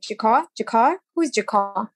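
put-on repeating the name in her accent, puzzled; a foreign accent on Jack Carr, puzzled; puzzled, in her own accent. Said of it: "And with my accent".

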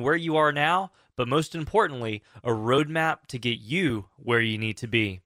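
slow, clear phone number read; infomercial. Acted. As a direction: announce the number slowly for listeners. Reads call-in number.

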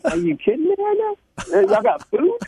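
high, thrilled mock disbelief; delighted squeak of disbelief; excited disbelief. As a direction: jump up in pitch, thrilled at free food. Excited disbelief over free food.

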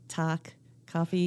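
"talk, coffee" with slow, open "ah" vowels; Scranton pronunciation. Shown as a demonstration. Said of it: "they say walk".

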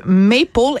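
Maple said the English way; English pronunciation. Real, not acted. Host introducing the book title, Maple pronounced in English. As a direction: say Maple with English sounds, not French. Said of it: "il faut le prononcer à l'anglaise".

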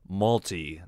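"malty" with an L in place of the R; imitated British name turned into "malty"; British-style mispronunciation. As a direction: say "malty" as in chocolate malt. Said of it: "it almost sounds like they're saying".

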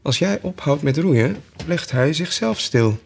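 smug sheep. Acted. Sheep explains.

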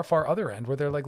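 ordinary talk

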